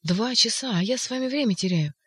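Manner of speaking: flustered at lost time; agitated hurry. Acted. Ivan to the doctor, agitated and hurried.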